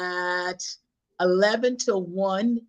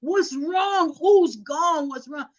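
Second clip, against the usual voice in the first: higher, anxious questioning; retold panic; 6 semitones higher, much slower than usual. Grandchild begging grandma for news, acted-out panic. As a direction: re-enact urgent worry on the phone. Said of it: "so I'm panicking".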